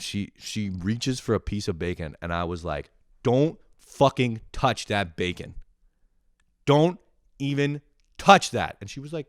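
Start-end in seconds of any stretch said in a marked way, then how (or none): 3.2-8.8 louder and higher, hammed-up warning; mock threat. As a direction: snap at the sister to keep off. Guarding bacon from sister.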